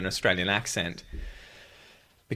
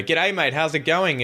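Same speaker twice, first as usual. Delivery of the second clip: a hint of an Indian accent on a friendly Aussie greeting, higher; light Indian accent; 6 semitones higher, slower than usual. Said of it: "I can tell you're Indian".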